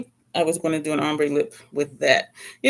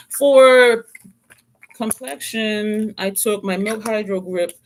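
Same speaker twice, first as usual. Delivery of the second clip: usual speaking voice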